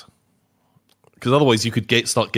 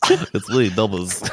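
lightly voiced weird goblin; a hint of a riddling labyrinth goblin; Nubbers; slower than usual. Podcaster mocking a donor's name, light goblin voice. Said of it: "would speak like that".

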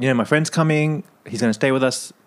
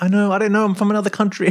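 put-on thickened Australian accent; 9 semitones higher, faster than usual. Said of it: "thickened up the accent".

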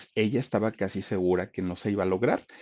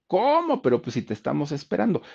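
high, quick mock astonishment; sorpresa actuada; 7 semitones higher than usual. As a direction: blurt it in high-pitched disbelief. Station's shocked reply, acted. (sorpresa fingida, voz aguda)

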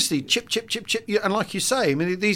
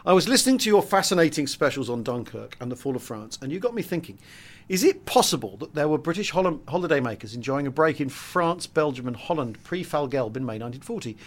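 reading aloud; 5 dB quieter than usual. Acted. Reads out a listener's question.

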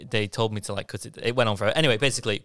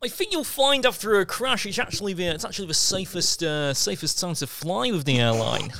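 higher-pitched reassuring know-it-all; mock know-it-all; 6 semitones higher than usual. Traveller mimicking people who reassured him about flying, higher know-it-all voice. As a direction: imitate people confidently explaining safety statistics. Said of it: "a lot of people like".

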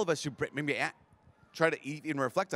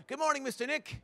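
put-on much higher, soft sing-song kid greeting; little kid voice; 11 semitones higher, 4 dB quieter than usual. A first grader greeting his teacher in the morning, high kid voice. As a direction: chirp it like a sweet six-year-old.

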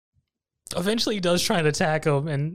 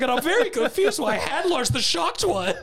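laughing through it; 9 semitones higher than usual. Real, not acted. Retelling own reaction, laughing.

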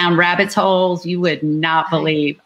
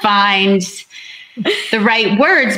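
wry self-mockery; slower than usual. Real, not acted. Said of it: "says the woman who writes books".

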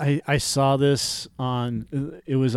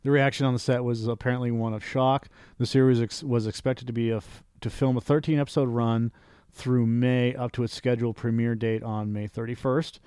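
news read. Acted. Reading the Swamp Thing report aloud, news-anchor style.

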